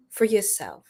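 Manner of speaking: eerie whisper trailing off; spooky whisper. Real, not acted. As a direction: whisper it ominously. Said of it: "I didn't mean to scare".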